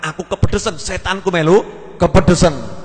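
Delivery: husband gloating about his trick; triumphant husband. Retold or imitated. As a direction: crow about fooling the devil.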